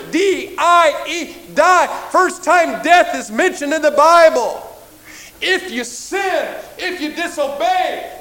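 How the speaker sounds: slow, emphatic pulpit warning; forceful preaching. Real, not acted. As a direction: hammer out each word like a preacher.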